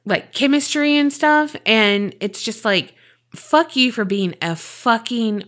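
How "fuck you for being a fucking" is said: hissed insult. Real, not acted. Venting anger at actor.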